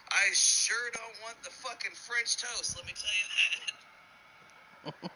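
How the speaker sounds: put-on slow, high-pitched kid's insistence; emphatic little boy. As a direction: stretch it out as a boy firmly refusing. Little boy answering in joke.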